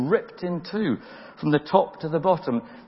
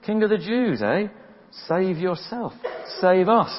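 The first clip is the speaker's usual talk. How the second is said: high, jeering mock taunt; 5 semitones higher than usual. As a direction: sneer it up at him like a soldier. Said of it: "they taunted him".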